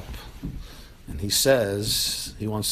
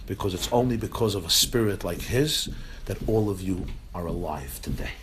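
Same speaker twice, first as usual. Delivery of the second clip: solemn grandfather; 3 semitones lower, 4 dB quieter than usual. Retold or imitated. Grandfather solemnly defends grandson to family.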